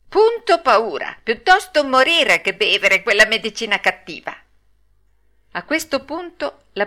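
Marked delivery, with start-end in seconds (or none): 0.1-4.4 higher-pitched puppet defiance; stubborn bravado. Acted. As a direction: dig in like a bratty child. Pinocchio defies death itself.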